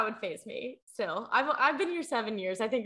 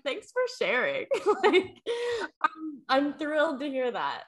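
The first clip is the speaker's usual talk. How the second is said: dry mock thanks; 6 semitones higher, slower than usual. Mock reply to mom.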